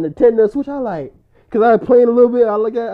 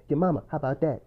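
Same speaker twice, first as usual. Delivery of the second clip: quiet imitation of albino dude; 6 semitones lower, 9 dB quieter, faster than usual. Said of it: "he said".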